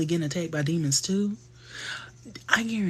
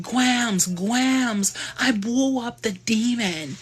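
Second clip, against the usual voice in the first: put-on excited kid; 7 semitones higher, much slower than usual. Child Piper running to Grams.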